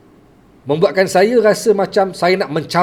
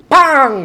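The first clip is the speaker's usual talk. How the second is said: imitated slap; 10 semitones higher, 6 dB louder than usual. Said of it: "saya dilempang oleh kawan saya".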